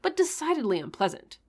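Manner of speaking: hammed-up crazed preacher reading aloud; mad voice. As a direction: read it like a mildly mad guru. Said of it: "I'm just gonna do a mad voice".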